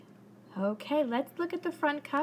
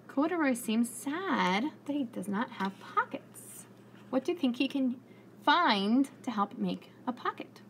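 lively storybook narration for little listeners; reading to children; 3 dB louder than usual. A narrator's reading. Teacher reading aloud to her class, lively storybook voice. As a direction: tell it like story time on the rug.

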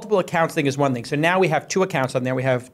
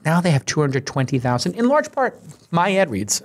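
ad read. Acted. Sponsor ad read in podcast.

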